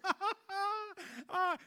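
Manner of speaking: high, loud scoffing laugh; mocking laugh. Scoffing at a friend's Ironman talk, mocking laugh. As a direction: laugh it off in disbelief.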